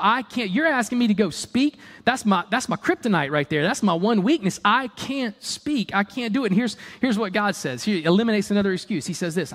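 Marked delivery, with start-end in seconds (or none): 0.0-6.5 mock panicked objection, pitch jumping up; panicked protest. Moses objecting that he cannot speak to Pharaoh, mock panicked protest.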